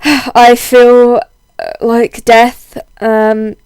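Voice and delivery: husky voice from a heavy cold; hoarse, under-the-weather husky voice. Real, not acted. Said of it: "my very husky man voice at the moment".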